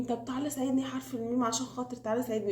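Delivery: quick, lightly acted coaxing; playful pleading. Letter Seen begs letter Meem for help, mock pleading. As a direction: beg a favour in a hurried storybook voice. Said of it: "فراح يتحايل على الحروف".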